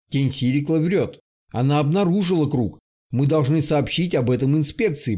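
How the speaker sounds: weary voice with a slight lisp; tired slight lisp. Acted. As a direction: drag it out tiredly, a faint lisp. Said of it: "усталым, чуть шепелявым голосом".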